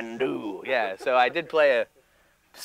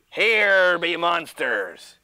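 slow pirate voice; much slower than usual. Shown as a demonstration. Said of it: "you go".

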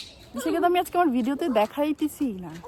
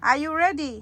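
higher, louder sing-song call; cheerful are you ready call; 5 semitones higher, 4 dB louder, much slower than usual. Real, not acted. Calling the baby again, livelier.

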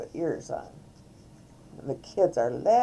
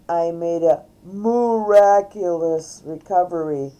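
loud, showy cow character, barely squeaky; Mary Moo Cow; 10 dB louder than usual. A narrator's reading. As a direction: declare it grandly as a costumed cow. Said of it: "answered in a squeaky voice".

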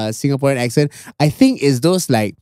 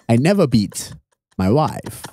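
put-on Lee Kuan Yew's accent; 4 semitones lower than usual. Founding father denies beating his wife, low British accent. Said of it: "is that a good British accent?".

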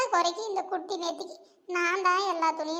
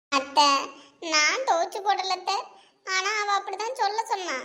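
a scared aunt pleading, babbling her confession; lightly voiced fearful mother-in-law; frightened aunt; 5 semitones higher than usual. Frightened aunt confessing to her son-in-law, pleading and babbling.

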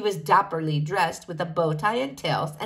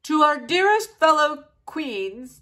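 butler reading out a formal invitation; reading a letter; 3 dB louder than usual. A narrator's reading. Butler reads the invitation aloud to the king, formal. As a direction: read it out grandly.

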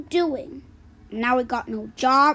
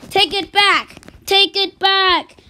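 higher, building to louder; insistent demand; 5 semitones higher, 4 dB louder than usual. Acted.

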